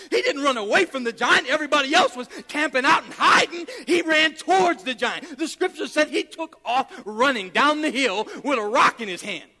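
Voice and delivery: loud, driving sermon storytelling; full-force preaching. Real, not acted. Preacher telling how David charged the giant, full-force preaching. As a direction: punch the key words, building excitement.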